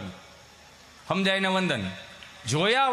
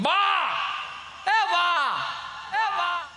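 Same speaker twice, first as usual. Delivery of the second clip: calling granny; 10 semitones higher, much slower than usual. Retold or imitated. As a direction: call out to get granny's attention. Calling out to grandmother.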